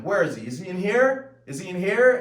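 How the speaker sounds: loud, high, frantic questioning; intense acted demand. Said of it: "a very intense scene".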